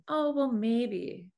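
drawn out slowly, unsure; a slow, hesitant second guess; slow doubtful musing. Retold or imitated. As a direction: stretch Oh, well, maybe out slowly, wavering. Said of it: "we keep thinking".

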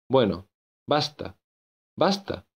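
a fed-up author cutting him off; exasperated exclamation. Acted. Author silencing his own character, exasperated outburst. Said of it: "exclamé dando un puñetazo".

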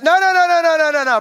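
high, loud string of no's; coach shouting no. Retold or imitated. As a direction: cut them off with a loud, rising no no no. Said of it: "and coach says".

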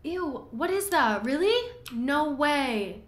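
slow, high, loud squeal of disgust; disgusted shriek. Real, not acted. Gamer squealing in disgust at the body in the cave. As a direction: recoil and squeal, grossed out.

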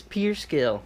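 "pure" said like "pier"; "pier" mispronunciation. Real, not acted. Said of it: "Pure is what you fish off".

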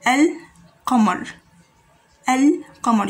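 Al-Qamar, slow, with the lam clearly sounded; Al-Qamar modelled slowly; Arabic word demo. Shown as a demonstration. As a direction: say Al-Qamar with a silent-vowel lam, l audible. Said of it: "You see, lam has a sukoon".

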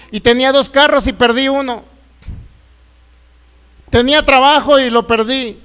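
mild re-enacted yell, aggrieved; indignant complaint, half-shouted; retold shout at God. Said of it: "le grité al Señor".

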